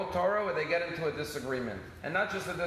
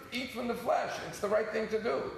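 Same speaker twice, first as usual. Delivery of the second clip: stern truth voice; 7 semitones higher than usual. Retold or imitated. Voicing Moshe's strict stance.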